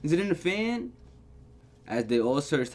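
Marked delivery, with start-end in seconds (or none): 0.0-0.9 anxious searching. Real, not acted. Anxiously hunting the threat.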